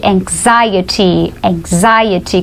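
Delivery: anxiety modelled as "eng-ZAI-uh-tee"; English pronunciation. Shown as a demonstration. Teacher helps with a hard word, anxiety as "eng-ZAI-uh-tee". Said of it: "mais difícil ainda de pronunciar".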